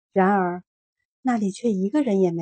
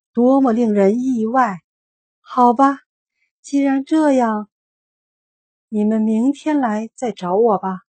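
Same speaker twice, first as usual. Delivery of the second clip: flustered wizard; 2 semitones higher, 7 dB louder than usual. A narrator's reading.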